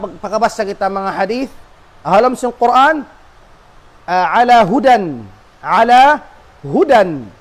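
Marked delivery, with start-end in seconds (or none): 4.4-7.3 "hudan" said with a sounded final n; tanwin on hudan. Shown as a demonstration. Teacher quoting the Quran to students, "hudan" with tanwin. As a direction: slowly show the n ending of "hudan". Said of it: "bukun siya mamnu' min as-sarf".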